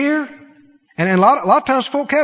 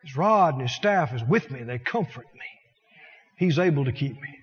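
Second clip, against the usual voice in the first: hushed assurance; 7 semitones lower, 7 dB quieter than usual. Real, not acted. Drops to soft, low.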